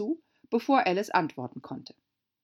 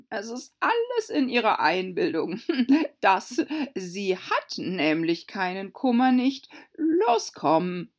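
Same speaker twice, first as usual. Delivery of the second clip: loud, emphatic Gryphon voice; brusque Gryphon; 4 semitones higher, 5 dB louder than usual. Acted. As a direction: play a brash, dismissive storybook beast. (forscher, lauter Greif)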